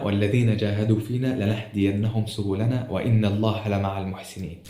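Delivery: slow, measured Quran quote; scripture recitation. Acted. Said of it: "قال ربنا".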